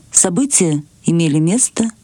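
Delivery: usual speaking voice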